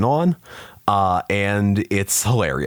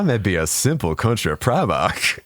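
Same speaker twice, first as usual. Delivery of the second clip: simple country Primarch. Pretend. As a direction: play a folksy Southern lawyer type.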